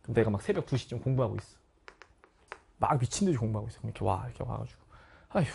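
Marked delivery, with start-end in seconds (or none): 5.3-5.5 imitated weary sigh; worn-out exhale; heavy sigh. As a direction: sigh like an exhausted mother coming home. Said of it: "이렇게 한숨을 팍 쉬어".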